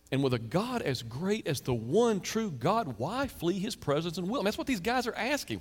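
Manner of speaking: ordinary talk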